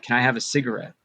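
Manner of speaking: ordinary delivery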